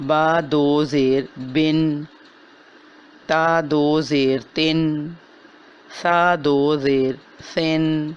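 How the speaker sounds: slow spelling with two zer, nasal ending clear; slow recitation drill. Shown as a demonstration. Teacher drilling two-zer tanween, slow recitation. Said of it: "نون کی آواز نکالی جاتی ہے".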